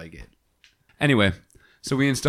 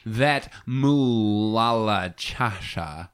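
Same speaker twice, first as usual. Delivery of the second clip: drawn out; much slower than usual. Acted. Drawn-out money slang.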